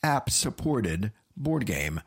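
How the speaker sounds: low, deep movie-trailer narration; dramatic trailer read. Acted. Reads game blurb dramatically.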